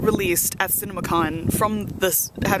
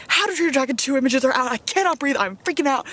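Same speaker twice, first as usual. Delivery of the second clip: excited; 6 semitones higher than usual. Retold or imitated. Frantic message to friend.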